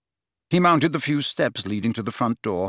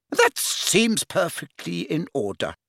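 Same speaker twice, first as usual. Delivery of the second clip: slow, placid matron, pitched higher; 6 semitones higher, slower than usual. A narrator's reading. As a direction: approve it slowly and placidly. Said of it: "she said placidly".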